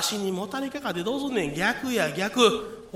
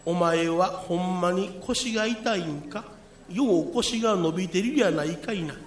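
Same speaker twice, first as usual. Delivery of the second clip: put-on creaky wise old man; 3 semitones lower than usual. Friend posing as Yakushi.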